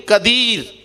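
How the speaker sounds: drawn-out قدیر opened with k instead of qaf; mispronounced Qur'an word. Shown as a demonstration. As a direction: recite قدیر wrongly, starting on an ordinary k. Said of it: "قدیر پڑھا".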